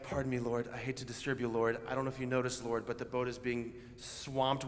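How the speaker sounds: overly polite. Retold or imitated. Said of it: "I don't think that's what it sounded like".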